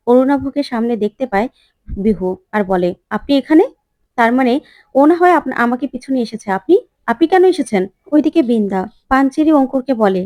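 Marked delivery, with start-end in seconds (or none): 3.2-7.8 startled. Acted. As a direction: caught off guard, stumbling. Bihu startled seeing Arunabh.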